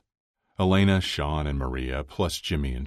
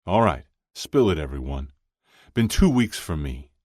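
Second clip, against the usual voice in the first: lightly voiced hearty ringleader; 6 dB louder than usual. Chuck prompts everyone to confess, lightly hearty. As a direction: get the table talking, heartily.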